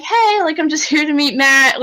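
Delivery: put-on sweet naive girl. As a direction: play the innocent newcomer saying hi. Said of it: "'cause she was like".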